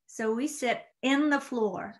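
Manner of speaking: slow West Virginia drawl on in the floor; West Virginia accent. Shown as a demonstration. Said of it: "Oh, that's really good".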